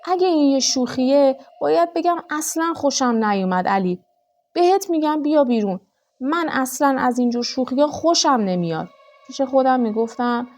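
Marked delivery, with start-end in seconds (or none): 0.1-8.9 raised, higher angry yelling at a hidden husband; angry call into the dark; angry shout. Acted. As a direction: shout it out, furious and scared. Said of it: "با عصبانیت داد زدم".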